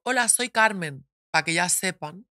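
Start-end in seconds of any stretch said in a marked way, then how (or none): 0.0-1.1 presenting herself on the phone. Shown as a demonstration. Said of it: "Yo siempre cuando llamo digo".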